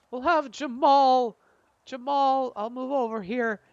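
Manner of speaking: high, loud hammed-up call; game character announcing a move. Game master voices Jamal's move.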